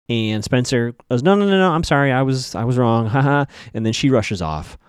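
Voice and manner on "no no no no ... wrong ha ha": mock backpedalling. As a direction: take it all back with a nervous mock ha-ha. Spencer's hasty backpedalling apology, retold.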